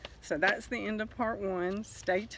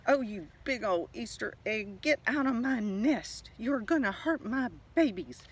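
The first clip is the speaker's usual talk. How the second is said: screeching mother bird; 5 semitones higher than usual. Acted. Missus Redbird shrieks at the egg in her nest, angry and high. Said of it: "screeched Missus Redbird".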